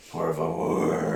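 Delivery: very low, slow bad Mexican accent. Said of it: "a really bad Mexican accent".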